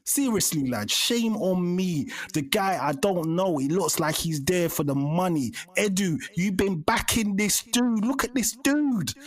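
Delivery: loud, high-pitched angry rant; heated rant. Real, not acted. Fan ranting at mate about backing dude, loud furious rant. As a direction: rage at the team, voice climbing.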